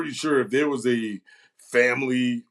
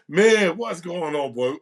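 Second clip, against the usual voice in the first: friendly greeting; 5 dB louder, slower than usual. Real, not acted.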